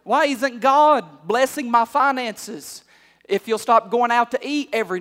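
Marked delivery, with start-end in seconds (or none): 0.0-2.8 mock complaining churchgoer. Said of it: "You say".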